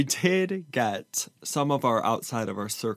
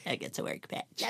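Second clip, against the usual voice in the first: breathy whisper of the line; 7 semitones higher, 9 dB quieter than usual. Shown as a demonstration. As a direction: whisper it under your breath.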